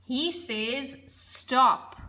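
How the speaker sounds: a firm, final "Stop." with a falling end. Shown as a demonstration. Teacher showing the full stop to grade threes. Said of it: "The full stop".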